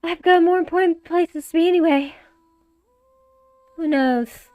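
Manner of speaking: brash flirty guy voice; Ronnie voice. Acted. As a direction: play the cocky rogue. Ronnie character voice.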